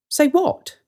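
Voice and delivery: high, innocent brother's question; mock innocent. Brother teasing his sister, mock innocent. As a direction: play dumb, teasing.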